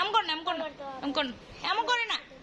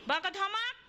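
mock scolding prompt; 6 semitones higher than usual. Mother prompting baby to scold.

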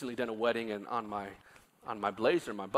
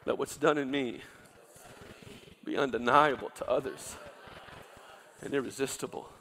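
leading a prayer. Shown as a demonstration. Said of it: "Say it one more time".

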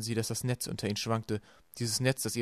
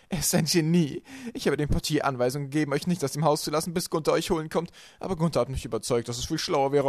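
loud, higher-pitched boasting; gloating villainess; 4 semitones higher, 6 dB louder than usual. A narrator's reading. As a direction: lord your plan over them. Villainess gloats over her plan. (triumphierend, laut und erhöht)

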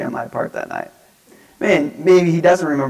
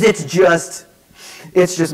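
halting, higher-pitched imitation of tears; mock sobbing; 4 semitones higher, 4 dB louder, slower than usual. Crying teen trying to collect himself, mock sobbing. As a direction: struggle to get the words out. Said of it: "trying to collect himself".

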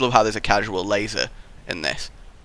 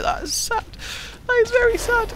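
mock sad; 4 dB quieter than usual. Mock sadness, high voice.

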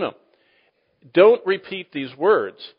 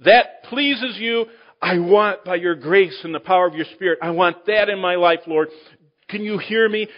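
earnest prayer; 4 semitones higher than usual. Pretend. Preacher models a sincere prayer to the Lord, earnest and rising. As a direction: pray it like you truly mean it.

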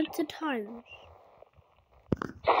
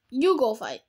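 you go fight repeated louder, firm fall; insistent repeat; 4 dB louder than usual. Shown as a demonstration. Gamer repeating an order to a friend, insistent. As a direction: repeat it firmly so they hear. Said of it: "I said".

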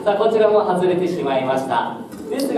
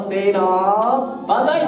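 banzai cheer; much slower than usual. Real, not acted.

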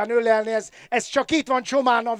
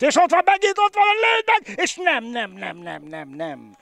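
excited sports commentary. Real, not acted. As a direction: call the chance at full tilt. Live goal chance commentary.

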